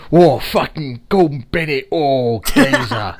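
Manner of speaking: loud, hammed-up London accent; Danny Dyer. Filmmaker mimicking his actor's bad London accent, exaggerated shout. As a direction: bellow it as an over-the-top cockney geezer. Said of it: "His London accent was".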